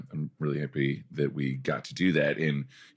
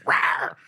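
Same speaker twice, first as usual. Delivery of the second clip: playful gotcha tiger roar; tiger growl; 3 dB louder than usual. Retold or imitated. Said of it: "I'm like".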